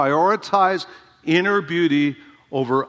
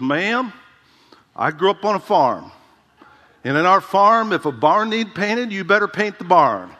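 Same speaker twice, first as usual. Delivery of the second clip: put-on southern accent; 4 semitones higher than usual. Old southern preacher answers a holiness lady, southern accent. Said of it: "he had this southern accent".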